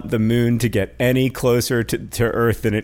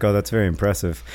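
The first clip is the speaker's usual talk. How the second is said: dry fake praise; 4 semitones lower, faster than usual. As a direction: mutter the polite compliment, unconvinced. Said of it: "you're like".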